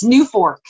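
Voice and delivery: nuforc said NEW-fork, with a full "or"; trying out pronunciation. Shown as a demonstration. Co-host attempting an unpronounceable acronym, nuforc as NEW-fork. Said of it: "that's not pronounceable".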